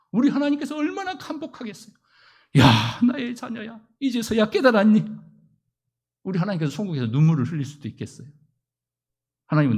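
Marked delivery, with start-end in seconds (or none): 2.6-5.0 a moved God answering gently; God's tender voice. Pretend. God voiced speaking to child.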